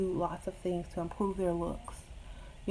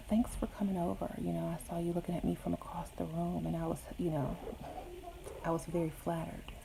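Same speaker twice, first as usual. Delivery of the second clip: whisper; 6 dB quieter than usual. Shown as a demonstration. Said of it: "And then whisper".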